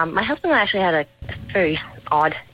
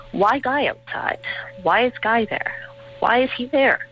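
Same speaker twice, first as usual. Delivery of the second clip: put-on high, whispered small child; toddler voice; 8 semitones higher than usual. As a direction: voice a small boy asking. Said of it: "my two-year-old son".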